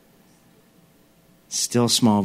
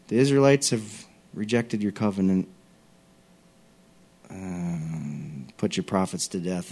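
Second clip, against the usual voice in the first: mildly mopey complaint that trails off; whiny self-pity; 3 semitones lower than usual. Retold or imitated. Preacher imitating Elijah's repeated complaint, mildly whiny. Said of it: "it sounded more like this".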